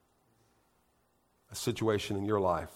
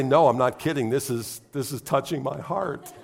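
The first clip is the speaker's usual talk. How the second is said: laughing, louder, insisting he's truly moved; laughing protest; 3 semitones higher, 3 dB louder than usual. Retold or imitated. Husband answering wife during a sad movie, laughing protest. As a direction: protest through laughter that it's touching. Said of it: "And I'll say".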